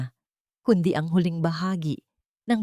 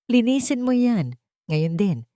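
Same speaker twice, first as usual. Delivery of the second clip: sharp order; 5 semitones higher than usual. Acted. Bianca orders Teresa to clean.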